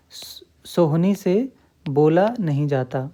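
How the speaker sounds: slow, leaning on से; teacher stressing से to show the focus; slow stressed example. Shown as a demonstration. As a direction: lean on से, then बोला नहीं जाता. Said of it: "किस पे हम जोर डाल रहे हैं".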